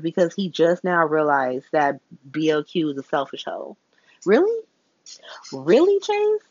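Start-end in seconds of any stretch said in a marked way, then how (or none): 4.3-4.6 high rising disbelief; a disbelieving high "Really?"; incredulous. Real, not acted. Vlogger reacting to a character's news, incredulous. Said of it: "incredulous rising "Really?". 5.5-6.4 high breathless whisper; whispered disbelief. Real, not acted. Vlogger mocks Chase's late realization, whispered. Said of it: "whispered follow-up".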